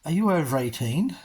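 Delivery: lightly imitated ticket seller, rising; retold question. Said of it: "And she says".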